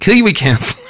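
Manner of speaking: high-pitched failed New Zealand accent; bad Kiwi accent. Shown as a demonstration. Host retries introducing the counsellor, hammed Kiwi accent. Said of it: "I can't do a Kiwi accent".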